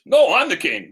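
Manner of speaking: high, loud insistent retort; hammed-up squabbling over a title; arguing. King arguing back and forth with beggar man, indignant. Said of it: "They're arguing back and forth".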